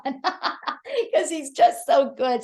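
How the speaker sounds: real laugh breaking into drawn-out praise. Real, not acted. Host praising Nicholas before he comes on, laughing. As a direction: laugh through the words, slowing down.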